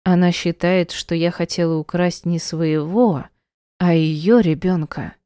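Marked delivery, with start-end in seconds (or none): none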